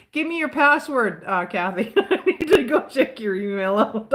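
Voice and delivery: imitating a nosy demand; mock demand. Mimicking a partner demanding her password, pushy. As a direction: put on a pushy voice asking for the password.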